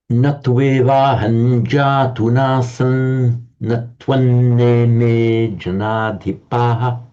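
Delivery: slow, measured chanting of the verse; verse recitation. Shown as a demonstration. Teacher reciting the Gita verse to the class, slow and measured. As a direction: intone the Sanskrit line slowly.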